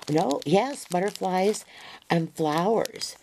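high, bright butterflies and flowers; delighted at finding butterflies and flowers; excited correction. Real, not acted. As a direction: lift it up in happy discovery.

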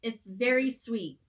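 talking while chewing; words muffled by food; mouth full. Real, not acted. Seen 1: Left woman eats cookie from -3, cheeks full and chewing throughout.

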